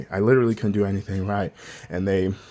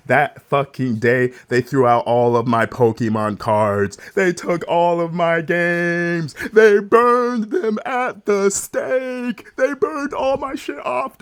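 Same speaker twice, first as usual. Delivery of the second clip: slow, louder, climbing outrage; rising anger; 6 semitones higher, 4 dB louder, slower than usual. Real, not acted. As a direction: let the anger build as you tell it. Angry outburst retelling the burning.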